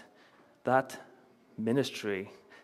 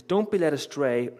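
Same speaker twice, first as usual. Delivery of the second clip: louder and higher, in one run; raised preacher's voice quoting scripture; emphatic quoted warning; 4 semitones higher, 5 dB louder than usual. Acted. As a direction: proclaim the warning with force. Quotes Jesus's warning forcefully.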